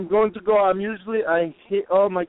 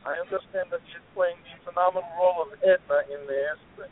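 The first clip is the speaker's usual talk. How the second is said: distant, faint voice off the phone; speaking away from the phone mouthpiece; phone held away; 3 semitones lower, 5 dB quieter than usual. Real, not acted. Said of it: "you wanna talk into the phone?".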